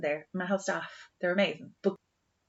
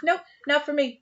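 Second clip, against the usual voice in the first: high, louder emphatic nope; firm refusal; 7 semitones higher, 3 dB louder than usual. Real, not acted. Host refusing the ghost story with a high, louder nope. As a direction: shut the idea down with a high, loud nope.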